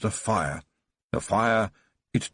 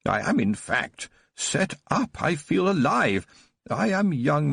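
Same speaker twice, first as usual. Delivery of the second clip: joyful reminiscing; 3 semitones higher than usual. Acted. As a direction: relive the memory with glee. Baron joyfully recalling boyhood.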